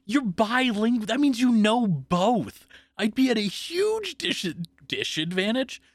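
high, loud mock protest, slow and drawn out; mock outrage. Whining to his co-host about the French words, hammed-up high protest. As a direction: wail the unfairness like a hammed-up victim.

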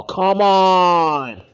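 normal talking voice

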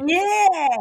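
loud, high whoop of agreement; excited cheer. Real, not acted. Co-host cheering for Zach Morris, excited cheer. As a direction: holler it out, drawn out and high. Cheering co-host's praise of character.

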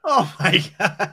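slow, high laughing gasp of disbelief. Real, not acted. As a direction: drag it out through a laugh. Reacting to taco story.

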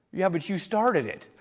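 lightly voiced kid's excuse; a boy shrugging it off; child's retort.

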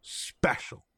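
breathy whisper of awe. Real, not acted. Host imagining the dream match, whispering in awe. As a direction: whisper it like something sacred.

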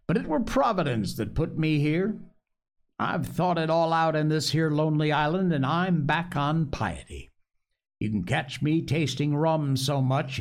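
rambling, earnest castaway confession; lightly voiced, eager to prove his piety. Castaway telling the boy his life story, earnest and rambling.

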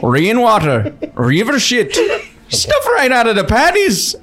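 put-on Swedish accent slipping toward Irish; half-laughing Swedish that drifts Irish. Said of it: "I have to do Swedish again".

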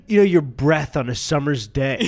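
laughing through the punchline; words breaking into laughter. Real, not acted.

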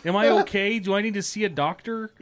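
mock panic. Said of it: "I'm just like".

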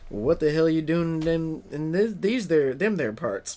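put-on slurred Southern hick accent; American hick accent. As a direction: fumble through a Southern hick impression. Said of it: "'cause our hicks are like".

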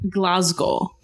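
Glasgow said the Scottish way; Scottish pronunciation of Glasgow; Scottish accent. Shown as a demonstration. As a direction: say Glasgow as a Scot would. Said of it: "such a Scottish way of saying".

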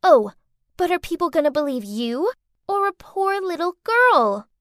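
high child voice, sly and mocking; a little girl gloating she'll be believed; smug girl taunting her stepmother. Girl revealing her scheme.

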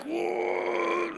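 very high, long, thin whoa; awestruck whoa. Retold or imitated. Man recalling liftoff from the ground, high awestruck whoa. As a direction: let it float up high in wonder. Retold awe as he takes off.

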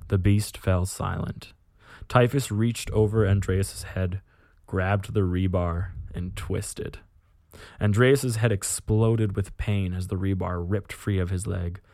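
measured, grim tale-telling; measured audiobook-style reading; story narration. A narrator's reading. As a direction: narrate a dark war story with deliberate pauses. Reads a war story aloud.

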